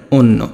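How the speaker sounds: অন্য said as "onno"; o-sound pronunciation. Shown as a demonstration. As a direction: round both vowels of অন্য to o. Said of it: "এটা কেমন হবে?". (ও-কার দিয়ে অন্য, "ওন্নো")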